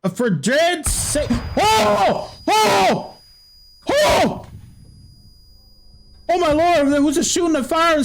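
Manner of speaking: put-on high, frightened old country man; a scared Southern farmer calling for his neighbour; country accent. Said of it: "Why am I speaking in a country accent".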